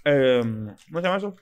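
talking while chewing; words round a bite of food; mouth full. Real, not acted. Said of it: "me estoy comiendo un pedacito".

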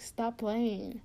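half-hearted impression of a friend; bad imitation of listener. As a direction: try their voice and miss. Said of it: "I suck at making an impression of you".

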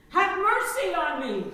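a loud, high cry for mercy; a beggar shouting to Jesus for mercy; shouted plea. Retold or imitated. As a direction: call out over a crowd, desperate. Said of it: "and so he shouted".

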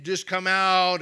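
imitating a loud, yelling exorcist; mock the shouting deliverance minister. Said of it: "screaming and yelling and saying".

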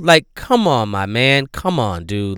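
starts loud, settles back to plain by "dude"; loud to plain, still fed up; fading exasperation. Real, not acted. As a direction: let the outrage drain away. Exasperation calming down.

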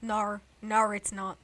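Aussie "No" with an r glide; Australian accent. Acted. Denying she sounds British, Australian accent. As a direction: deny it in a put-on Australian accent. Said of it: "That's British".

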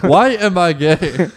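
slow, laughing repeat. Retold or imitated. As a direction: laugh through it slowly.

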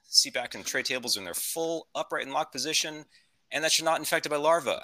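lightly voiced pilot making an in-flight announcement; a hint of a captain on the intercom; airline captain. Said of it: "This is your captain speaking".

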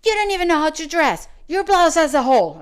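high, loud indignant retort; imitating an offended woman snapping; mock angry lady. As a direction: throw the insult back at her. Retold angry lady quoted.

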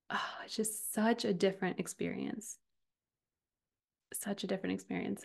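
breathy awed whisper, almost no voice. Real, not acted. Coach to her listeners, hushed in quiet wonder. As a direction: let the words fall to a hush of wonder.

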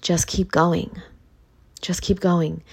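loving encouragement. Retold or imitated. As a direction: ease it out gently like a hug. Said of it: "And you're gonna say".

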